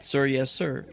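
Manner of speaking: loud military acknowledgment; crisp loud reply. Retold or imitated. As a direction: snap back like a young sailor. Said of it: "the kid just responded".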